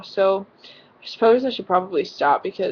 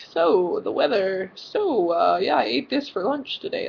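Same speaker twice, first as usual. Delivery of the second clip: mock small talk. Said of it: "It's not like".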